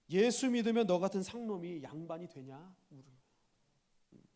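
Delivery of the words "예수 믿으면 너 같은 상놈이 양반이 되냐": lightly acted scornful jeer; sarcastic. Royal master mocking his lowborn groom, lightly sarcastic. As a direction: sneer at him a little, mockingly. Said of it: "빈정거리며 얘기합니다".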